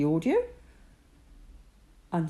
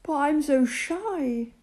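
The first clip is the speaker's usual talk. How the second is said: shy Moses; 9 semitones higher than usual. Acted. Moses pleads shyness.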